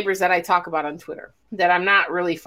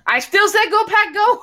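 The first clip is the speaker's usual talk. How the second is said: cheering on; 11 semitones higher, 3 dB louder than usual. Retold or imitated. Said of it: "trying to cheer us on".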